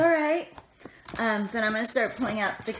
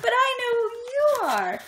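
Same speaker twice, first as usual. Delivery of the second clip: fast, much higher and louder gush; excited fangirl; 5 dB louder, much faster than usual. Retold or imitated. Fan gushing at a craft show booth, high and fast. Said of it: "And I was like".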